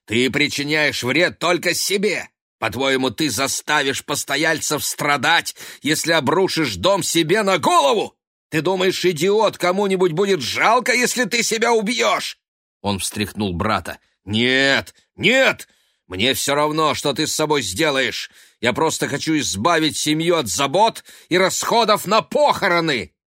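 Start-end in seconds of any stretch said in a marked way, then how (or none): 0.0-12.4 high, loud building rage; furious, rising tirade; berating. A narrator's reading. Ben berating his brother. 14.2-23.1 high, loud bitter shouting; scornful rage; furious. A narrator's reading. Ben berating his brother.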